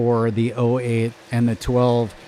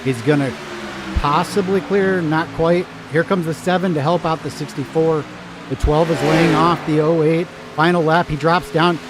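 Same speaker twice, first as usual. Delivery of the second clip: excited high play-by-play; race caller; 5 semitones higher, 4 dB louder than usual. Acted. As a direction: call the last laps like a race announcer. Live race finish commentary.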